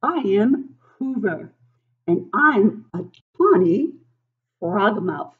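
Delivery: a little bird happily summoning its dinner; frogmouth bird voice. Acted. Reads frogmouth bird's lines.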